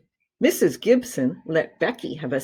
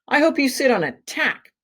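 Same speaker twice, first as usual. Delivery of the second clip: put-on spiteful kid taunt; 9 semitones higher than usual. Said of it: "I said to Paul".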